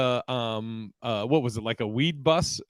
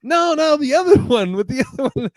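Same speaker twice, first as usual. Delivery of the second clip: retold insistence; 11 semitones higher, 7 dB louder than usual. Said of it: "I was like".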